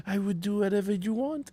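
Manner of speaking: soft imitation of a smitten husband; softened, mock-adoring voice; lovestruck. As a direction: gently act out total devotion. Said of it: "in love with his wife".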